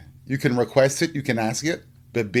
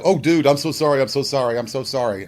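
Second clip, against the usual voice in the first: mock apology; 2 semitones higher, faster than usual. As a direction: imitate a flustered apology, repeated and fading. Retelling the guy's panicked apology.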